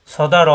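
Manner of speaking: loud সদা র ending on a heavy rounded র; rounded final র. Shown as a demonstration. Teacher drilling the word loudly, rounded র in সদা র. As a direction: keep the র in সদা র round, never raa. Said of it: "রা হবে না, এখানে আকার প্রকাশ পাবে না".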